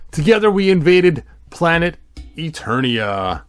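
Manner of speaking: lightly voiced villain reading; a hint of a menacing Skeletor narration. Reading the Skeletor book to viewers, mildly villainous.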